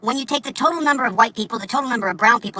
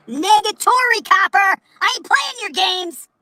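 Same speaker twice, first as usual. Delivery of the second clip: defiant mock taunt; 8 semitones higher, slower than usual. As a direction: sneer it at the copper, slowing at the end. Defiant rant at imagined cop.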